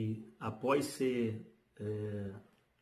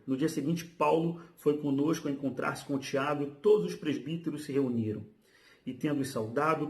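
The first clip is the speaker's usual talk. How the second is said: slightly raised, steady reading aloud; lightly projected Bible reading; scripture reading. Acted. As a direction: read the passage out to the congregation. Reads scripture passage aloud.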